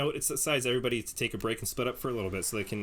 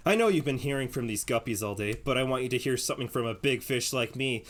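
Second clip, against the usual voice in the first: cocky Trickster. Acted. Trickster brags to the player about his island secret, smug and teasing. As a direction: sell yourself as the big catch, then a teasing laugh.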